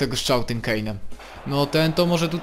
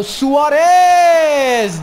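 high, loud, stretched name; long excited goal call; goal shout; 13 semitones higher, 10 dB louder than usual. Real, not acted. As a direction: roar the scorer's name. Scores a goal in game.

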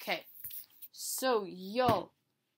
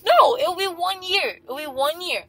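exasperated protest; 9 semitones higher, 12 dB louder than usual. Real, not acted. Correcting family about being away, exasperated protest. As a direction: push back hard, stretching the words. Disputing never coming home.

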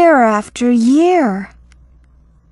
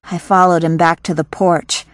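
quicker pace, same words; a brisk, faster reread; 4 semitones lower, faster than usual. Shown as a demonstration. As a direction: run through the line briskly, fast. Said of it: "다시 들어봅시다".

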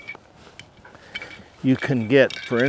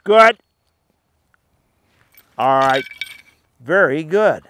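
bright, much higher, louder praise; high happy praise; 5 semitones higher, 10 dB louder than usual. Real, not acted. Trainer praising retriever's good work, high excited praise. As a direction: cheer the dog on, high and loud.

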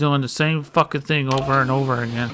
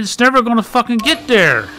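exasperated complaint; 5 semitones higher, 3 dB louder than usual. Real, not acted. Gamer stuck on a puzzle.

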